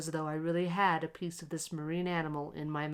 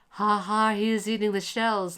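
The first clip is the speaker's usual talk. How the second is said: loud, higher mocking laughter; crowd laughing; 4 semitones higher, 7 dB louder than usual. A narrator's reading. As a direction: jeer at the boy, laughing. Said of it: "laughed the crowd".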